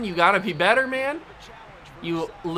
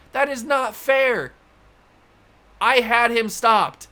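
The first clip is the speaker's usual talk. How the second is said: outraged; 5 semitones higher than usual. Real, not acted. Outraged at the play.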